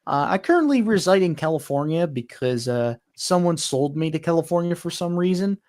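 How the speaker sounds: lightly done Canadian accent with eh; a friendly Canadian engine saying hi, eh. Shown as a demonstration. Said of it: "a standard Canadian voice for Royal Hudson".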